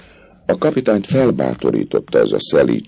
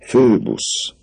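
in a voice of endless love; 12 semitones higher than usual. A narrator's reading. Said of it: "szólt a végtelen szerelem hangján".

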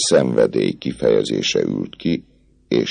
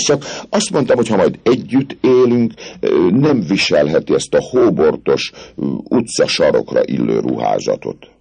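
higher, eager voice of a smooth-talking captain; the captain sweet-talking the girl, eager and higher; dashing captain; 7 semitones higher than usual. A narrator's reading. Phoebus voiced by narrator.

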